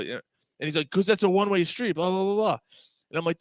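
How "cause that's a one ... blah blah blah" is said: mock exasperated explanation. Retold phone argument.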